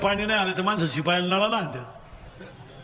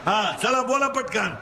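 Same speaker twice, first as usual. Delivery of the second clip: call-and-response preaching; 5 semitones higher than usual. Real, not acted. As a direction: leave the end rising for them to finish. Call and response story with children. (पोरांकडून वदवून घेणारा चढा सूर)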